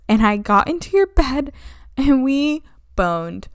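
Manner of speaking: an understated mock-earnest confession; lightly voiced confessing Countess. Countess explaining her grief to her son, slow mock confession.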